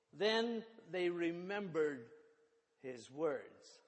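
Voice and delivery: measured, clearly phrased Bible reading; solemn public reading from the text; scripture reading. A narrator's reading. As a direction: read the gospel aloud to a congregation. Reads the Easter scripture aloud.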